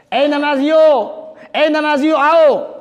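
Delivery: high, drawn-out summons; angel calling out. Acted. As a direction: call the worshippers to come, stretching the words. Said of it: "फरिश्ता आवाज़ें देता है". (फरिश्ते की ऊँची पुकार)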